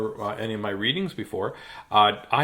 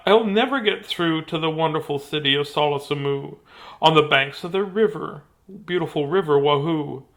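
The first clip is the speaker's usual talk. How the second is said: emphatic start easing into wistful sighing; expressive storybook narration; dramatic story reading; 5 semitones higher, 7 dB louder than usual. Acted. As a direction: tell the hero's plight to a child. Reads picture book aloud.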